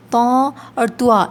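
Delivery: تو and توا, a nasal or w sound added wrongly. Shown as a demonstration. Teacher warning students of the mistake, contrasting تو with توا. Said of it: "یہ نہیں ہونا چاہیے".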